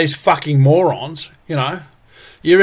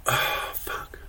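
breathless whisper of exasperation; real whispered frustration; whispered curse; 13 dB quieter than usual. Real, not acted. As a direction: drop to a whisper, fed up. Exasperated aside under breath.

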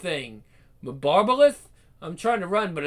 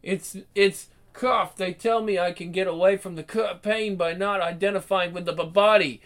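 stammering, frightened, broken phrases; delirious rambling. Acted. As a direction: fight through terror, words falling apart. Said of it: "He's delirious, rambling".

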